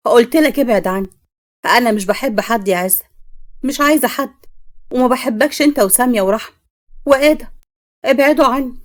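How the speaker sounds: pushing everyone away, hammed-up rage; angry daughter. Daughter shouts at her mother and father to leave her alone, acted anger.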